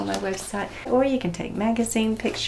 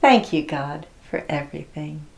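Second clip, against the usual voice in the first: prayer line to repeat; 3 semitones lower than usual. Shown as a demonstration. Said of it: "I'm gonna say a line, and then you're gonna copy me".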